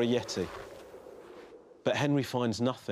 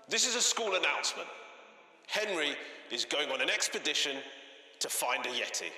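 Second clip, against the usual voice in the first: school announcement; 5 dB quieter than usual. A narrator's reading. Head teacher announcing Henry's expedition to the school, tannoy voice. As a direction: make a formal announcement over the school speakers.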